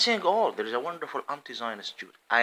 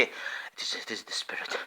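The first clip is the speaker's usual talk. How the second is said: mock whisper; 3 semitones lower, 5 dB quieter than usual. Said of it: "they say".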